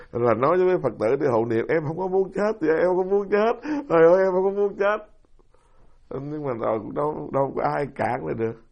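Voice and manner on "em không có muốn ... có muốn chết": retold tearful plea. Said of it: "bà khóc".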